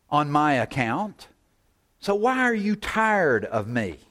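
rising plea, why are you weary; impassioned plea. Acted. Preacher voicing God's plea.

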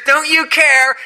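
high, loud accusing cry; panicked disciples. Acted. Disciples to Jesus in the storm: high panicked accusation. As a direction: shout the accusation in alarm.

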